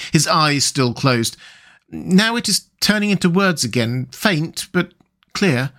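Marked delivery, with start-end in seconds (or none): 1.9-5.7 lightly voiced rapt Rat; entranced Rat voice.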